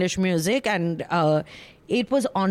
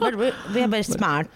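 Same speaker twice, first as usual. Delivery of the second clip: put-on convent-educated posh Indian accent; prim posh Indian accent, laughing; faster than usual. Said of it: "I say it in my convent-educated voice".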